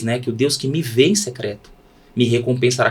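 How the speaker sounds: ordinary delivery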